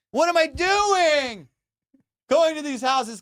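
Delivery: high, loud, slow self-scolding; exasperated. Real, not acted. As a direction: drag it out in disbelief. Self-reproach, comic disbelief.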